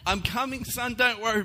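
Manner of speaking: high, loud mock-heroic shout; calling out. Dad bolting to his crying son, hammed-up heroic calling out. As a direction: shout reassurance as you charge through the dark. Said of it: "I'm calling out".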